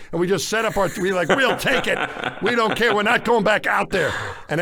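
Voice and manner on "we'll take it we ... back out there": higher and louder, set on staying; drenched crew telling the doctor they won't leave, loud; retold insistence. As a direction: plead to stay, half-laughing at yourself.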